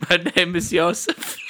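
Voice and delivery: a cheerful German introducing himself; friendly German accent. Pretend. Asked by friends for the friendly German, German accent. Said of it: "could you give me the friendly German again".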